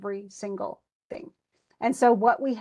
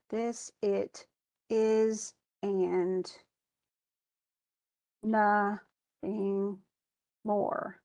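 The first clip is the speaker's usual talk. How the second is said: "This it is and nothing more" split into paced beats, "This" stressed; scanned slowly; 2 semitones lower, much slower than usual. Shown as a demonstration. Teacher breaking the line into its stresses. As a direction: pause between the beats. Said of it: "stressed, unstressed".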